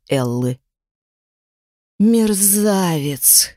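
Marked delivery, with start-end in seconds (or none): 2.0-3.5 slow, hissed through teeth; through gritted teeth. Acted. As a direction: spit it through clenched teeth. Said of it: "сквозь зубы процедила она".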